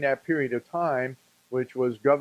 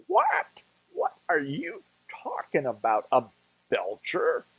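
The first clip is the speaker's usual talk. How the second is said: mock baffled surprise. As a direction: imitate her confused disbelief at the question. Wife puzzled by joke question.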